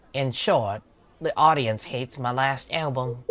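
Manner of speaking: lightly voiced British musician; a hint of British in a character read; British accent. Musician admitting the audience hates the album, lightly British. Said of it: "Bro made him British".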